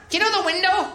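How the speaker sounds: high, lightly voiced wife; wife's voice. Wife asking husband a favour, high sweet voice. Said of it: "This is exactly what she sounds like".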